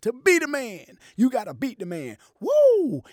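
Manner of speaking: high, loud wrestling promo shout; Ric Flair promo. Retold or imitated. Imitating Ric Flair on the mic, high and loud. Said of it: "he grabbed the microphone, he said".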